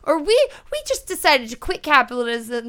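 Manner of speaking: baffled, rising disbelief; high, confused disbelief; incredulous. Retold or imitated. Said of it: "and you're like".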